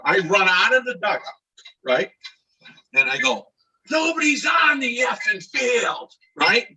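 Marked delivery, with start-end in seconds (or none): 3.9-6.1 high, drawn-out indignant holler; retold fed-up shout; exasperated yell back. He yells back from dugout.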